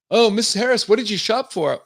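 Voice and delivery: high, loud, gushing fake reporter; mock a staged reporter's question in a squeaky-high voice; phony press questioner. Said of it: "the press walk up to her".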